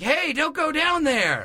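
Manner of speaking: high, slow extra's warning; extra's one line. Retold or imitated. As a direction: deliver a stiff one-liner warning. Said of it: "and it's like".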